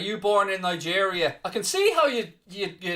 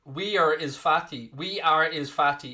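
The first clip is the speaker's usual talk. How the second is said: mocking quote. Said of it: "is what you're trying to say".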